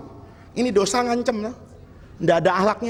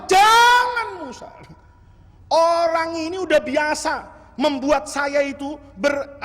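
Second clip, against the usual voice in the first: God halting Musa's raised hand, booming; voice of God forbidding; 4 semitones higher than usual. Acted. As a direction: call out a firm heavenly stop. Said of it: "Kata Allah".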